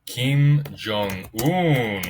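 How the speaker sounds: Kim Jong-un très lent et plus fort; annonce dramatique. Pretend. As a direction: pose la révélation lentement. (la révélation, lente et appuyée)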